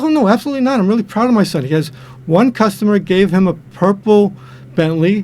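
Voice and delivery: proud father. Retold or imitated. Proud father in joke punchline.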